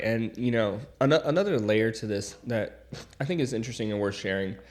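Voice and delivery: blocked nose, talking through congestion; stuffy nose. Real, not acted. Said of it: "I have a stuffy nose".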